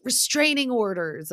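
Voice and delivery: high-pitched mock callout; retold callout. Scheana venting as they demo a wall, retold callout. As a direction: imitate someone venting at a wall. Acts out wall-smashing shout.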